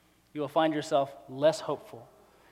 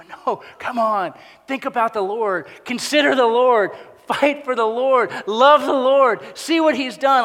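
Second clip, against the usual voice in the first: rousing encouragement; 8 semitones higher, 11 dB louder than usual. Retold or imitated. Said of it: "wants to go".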